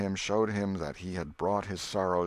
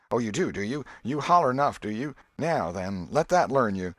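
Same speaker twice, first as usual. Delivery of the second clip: higher, louder playground taunting; mock fight taunts; 4 semitones higher, 5 dB louder than usual. Tom thrashing an imaginary rival, loud mock taunts. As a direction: crow over a beaten enemy.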